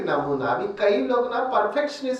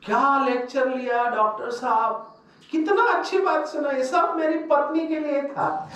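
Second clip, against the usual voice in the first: pleased husband; 5 semitones higher than usual. Retold or imitated. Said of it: "तो एक भाई आया".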